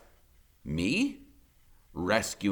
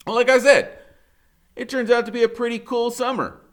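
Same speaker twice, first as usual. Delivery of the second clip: upbeat narration; 14 semitones higher, 9 dB louder than usual. A narrator's reading. Narrator's sudden upbeat turn.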